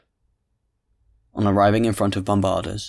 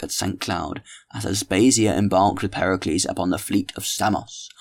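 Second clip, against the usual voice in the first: Tolomyes holding forth. Acted. Tolomyes lecturing the ladies at dinner, lightly voiced mock-grand oration. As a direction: hold court over the table, mock-grand.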